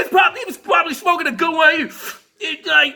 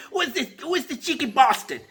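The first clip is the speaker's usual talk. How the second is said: put-on John Soyega, British accent; 5 dB quieter than usual. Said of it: "and he was like".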